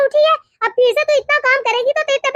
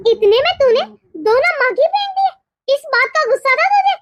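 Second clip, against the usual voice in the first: acted cross, drawn-out accusation; indignant mother-in-law's scolding; angry accusation; slower than usual. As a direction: demand an explanation, mildly heated. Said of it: "इतना गुस्सा मत कीजिए".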